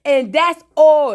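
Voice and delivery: imitating Gael. Gael quoted in a retold scene.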